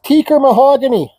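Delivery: muffled behind a dust mask; through a dust mask. Real, not acted. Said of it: "my dust mask".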